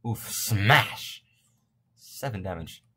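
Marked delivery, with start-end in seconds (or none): 0.1-1.2 loud, punched-out exclamation; mock smash cry. Gamer calling out a hit, loud and punchy. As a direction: belt it out like an attack call.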